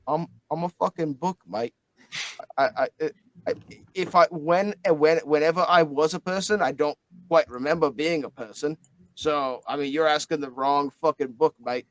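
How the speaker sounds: a light Australian twang, mate; a hint of an Australian bloke; Aussie accent. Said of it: "Can't do the accent for too long".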